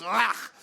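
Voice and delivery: savage grunt. Retold or imitated. Acts savage eye-poking cry.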